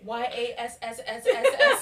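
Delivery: "Y A S S S S S S" hissed s held long; drawn-out s like a snake. Pretend. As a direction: stretch every s of "Y A S S S S S S". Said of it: "spelling out drawn yass".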